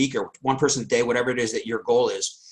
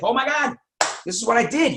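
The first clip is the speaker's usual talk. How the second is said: high-pitched, thrilled; excited; 9 semitones higher than usual. Shown as a demonstration. Coach modelling excited sharing to students, thrilled. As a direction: show how thrilled you are.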